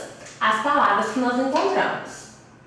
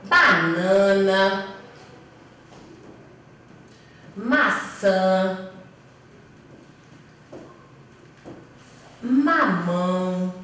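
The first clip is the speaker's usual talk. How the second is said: listando devagar; much slower than usual. Shown as a demonstration. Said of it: "Então".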